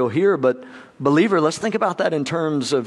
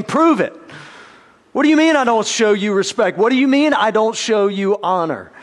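indignant challenge; 4 semitones higher than usual. Acted. People challenging God, indignant.

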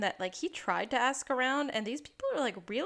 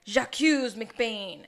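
slow, loud mock accusation; hammed-up detective pointing the finger; dramatic accusation; 6 dB louder, much slower than usual. Lassie accusing McBain, slow and hammy.

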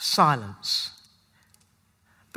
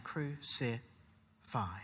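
crowd's cry; 7 semitones lower, 11 dB quieter, much slower than usual. Pretend. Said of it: "Our voice in the crowd saying".

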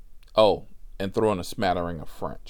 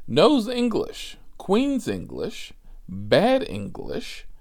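mock profile read; 9 semitones higher, slower than usual. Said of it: "On my profile, it says".

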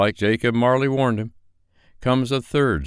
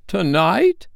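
high, shocked question; startled cry; 12 semitones higher, 5 dB louder than usual. Acted. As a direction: gasp it out in alarm. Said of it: "cried Scrooge".

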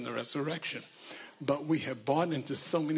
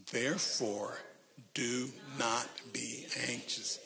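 reading aloud haltingly; 5 dB quieter, slower than usual. Shown as a demonstration. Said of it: "read this very slowly".

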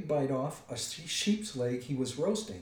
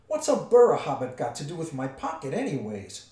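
indignant troll; 2 semitones higher, 8 dB louder than usual. A narrator's reading. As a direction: demand an explanation as a troll. Troll indignant about his pocket.

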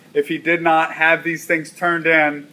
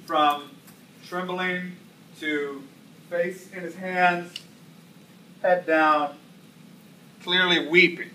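hushed; 7 dB quieter, slower than usual. Acted. Describing student breaking down.

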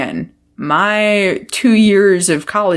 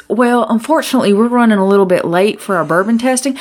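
overly polite phone voice; 4 semitones higher than usual. Retold or imitated. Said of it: "my initial response was".

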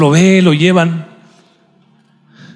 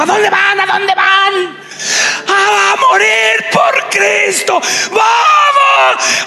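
very high squeaky shouting voice; little fish Dory; much slower than usual. Acted. Dory asking the fish where they go, squeaky and shouting. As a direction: cheer like a tiny cartoon fish.

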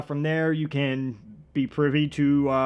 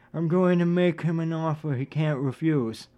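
badly faked mob boss voice; poor Marlon Brando impression; 2 semitones higher than usual. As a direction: do a bad impression of a film godfather. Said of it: "that's my piss poor Marlon Brando impression".

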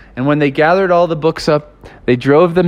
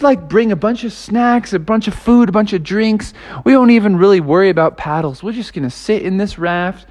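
higher, giddy planning voice; eager friends; 4 semitones higher than usual. Retold or imitated. Friends cheerfully plan a lazy river float, giddy and high. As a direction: sound like kids excited for an easy trip.

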